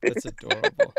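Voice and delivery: high, loud and breathy delight; delighted squeal. Real, not acted. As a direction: squeal it out with glee. Delighted at a funny story.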